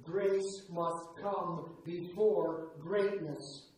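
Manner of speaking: slow, gentle encouragement from a mother; a mother's slow pep talk to her discouraged daughter. Retold or imitated. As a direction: coax her onward, word by word. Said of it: "in a little pep talk".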